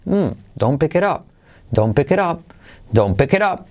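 "don't pick it up" as one linked, melodic phrase; tuneful, joined-up "don't pick it up"; native up-and-down intonation. Shown as a demonstration. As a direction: repeat "don't pick it up" with a rise and fall. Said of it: "si lo imitas así".

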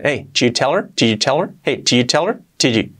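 "did you tell her" squeezed to "chu teler"; almost swallow "did", leaving a ch before "tell"; said quickly, contracted. Shown as a demonstration. Teacher showing rapid native speech, contracted question. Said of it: "dicho rápido".

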